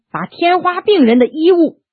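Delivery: plain reading voice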